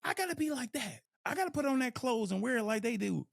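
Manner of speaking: mock envious. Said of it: "We're like".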